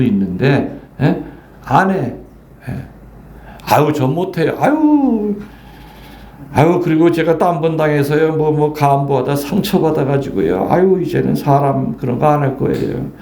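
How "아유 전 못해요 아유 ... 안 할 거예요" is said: a lightly voiced, whiny parishioner turning down a duty; whiny excuse. Parishioner turning down a parish post, in a mild whine. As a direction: beg off with a sigh.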